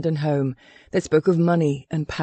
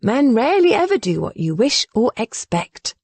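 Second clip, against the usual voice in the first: wise and patient; 5 semitones higher than usual. Acted. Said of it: "her voice laced with the wisdom of experience".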